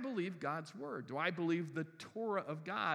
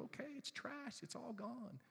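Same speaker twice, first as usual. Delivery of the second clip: resigned sigh; 3 semitones higher, 12 dB quieter than usual. Retold or imitated. Resigned over ruined things.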